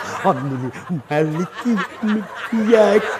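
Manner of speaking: hammed-up, intrusive prayer recitation in a low voice; mock an overbearing worshipper reciting into someone's ear; ear-biting recitation. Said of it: "Baca Al-Fatihah kayak mau digigit kita punya telinga". (meniru bacaan Fatihah yang mengganggu telinga)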